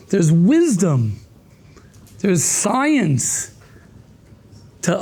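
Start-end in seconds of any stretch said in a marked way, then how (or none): none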